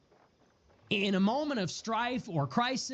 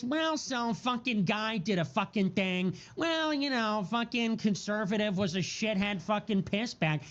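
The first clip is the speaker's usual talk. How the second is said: mock quote, tossed off with flippant contempt; flippant mocking imitation. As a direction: lightly mimic glib, mocking sneerers. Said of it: "it's so flippant".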